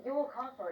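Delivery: "your" stressed over "castle". Acted. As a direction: lean firmly on "your". It's yours now, so own it.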